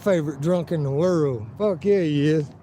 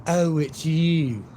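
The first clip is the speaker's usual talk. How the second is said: imitating drunk lady; much slower than usual. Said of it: "when she realized who I was".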